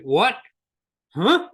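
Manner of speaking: sudden high, loud "Huh?" of confusion; mock bewildered client; baffled client. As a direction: play the client thrown by the question. Client baffled by coaching question.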